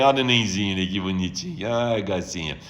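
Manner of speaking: baixinho e grave, derretido com o nenê; encantado com bebê. Real, not acted. Admira um bebê na transmissão. (encantado, falando baixinho)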